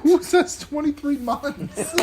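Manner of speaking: incredulous, drawn out through laughter; slow, loud-ish laughing disbelief. Real, not acted. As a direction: tease a friend while cracking up. Cracking up teasing a friend.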